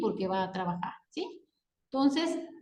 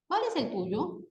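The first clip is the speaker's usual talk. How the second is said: CUÁL asked with a rising question tune; 2 semitones higher, 3 dB quieter than usual. Shown as a demonstration. Teacher reading an example question to students, questioning tone. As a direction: ask it as a question, lifting at the end. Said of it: "marcar el tono con que se pronuncian".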